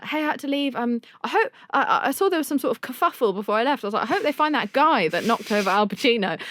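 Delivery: feigning innocence; innocent text voice. Retold or imitated. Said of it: "and said".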